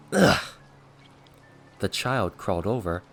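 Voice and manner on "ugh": loud throaty ugh of disgust; short revolted grunt; disgusted groan. A narrator's reading. Trampled villain revolted by his attacker, disgusted ugh.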